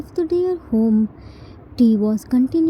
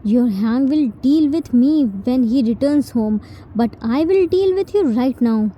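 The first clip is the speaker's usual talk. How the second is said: firm indignant rebuke. Acted. Jin telling T she is no maid, firm and indignant. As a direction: lay down who you are, word by word. Jin answers T's threat.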